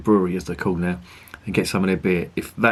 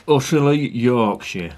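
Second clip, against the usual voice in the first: playful northern accent, pitched higher and louder; 5 semitones higher, 3 dB louder, slower than usual. Shown as a demonstration. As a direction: say the place name like a proud Yorkshireman, northern accent. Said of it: "I've got to say that in a northern accent".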